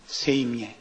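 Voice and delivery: Judas in a mock Gyeongsang drawl, said low; Gyeongsang dialect. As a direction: imitate Judas with a Gyeongsang accent. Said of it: "가롯 유다가 나섰답니다".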